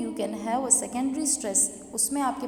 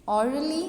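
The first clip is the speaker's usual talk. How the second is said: orderly with a strong OR, ending up; stress on first syllable; 2 semitones higher, 3 dB louder, much slower than usual. Shown as a demonstration. Teacher demonstrating to students, first syllable of orderly stressed. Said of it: "हम loudly pronounce कर रहे हैं".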